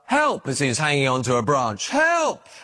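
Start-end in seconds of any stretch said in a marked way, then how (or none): 0.1-0.5 a mock call upward from the cliff, higher; calling for help. A narrator's reading. Man on the cliff calls up for help, higher mock call. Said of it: "he called up". 1.9-2.5 a higher, more desperate mock yell; louder cry for help. A narrator's reading. Stranded man cries louder to the empty sky, desperate mock yell. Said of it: "he called up".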